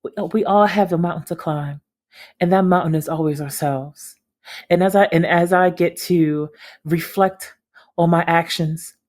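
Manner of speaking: lightly voiced pompous statement; mock-sincere publicist apology; flowery fake apology. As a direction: ham up a fake heartfelt speech. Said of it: "some flowery bullshit like".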